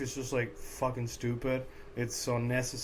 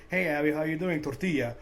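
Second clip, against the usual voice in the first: mock Spanish accent. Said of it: "say it with a proper accent".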